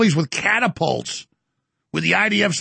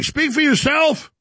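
higher, slower indignant retort; 9 semitones higher, slower than usual. Retold or imitated. Host retorting to warmongers, higher indignant. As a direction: push back, shocked and stern.

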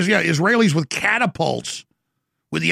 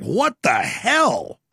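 slow disbelief; 4 semitones lower, much slower than usual. Retold or imitated. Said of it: "And I'm just like".

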